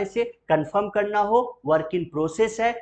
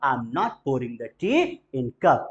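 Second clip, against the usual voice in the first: slow, clear, word by word; slow model answer; 4 semitones lower, much slower than usual. Shown as a demonstration. Teacher models the answer for students to repeat, slow. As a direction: drill it slowly. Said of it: "बोलते चलिएगा".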